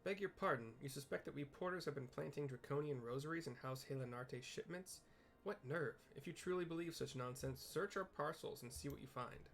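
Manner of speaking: a hint of a huffy porter defending his crew; indignant porter. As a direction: bristle at the accusation, proud and put out. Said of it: "here's the apathetic porter".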